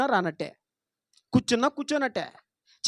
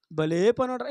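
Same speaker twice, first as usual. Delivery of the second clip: sarcastic praise; 3 dB quieter than usual. Retold or imitated. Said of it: "ఇప్పుడు యథార్థం కాదు అది".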